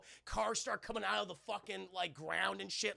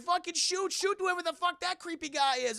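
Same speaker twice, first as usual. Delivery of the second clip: high, loud, urgent shouting; hammed-up frantic command, pitched way up; mock panicked order; 10 semitones higher, 6 dB louder than usual. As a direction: imitate a guard yelling in alarm. Voicing alarmed Russian ordering gunfire.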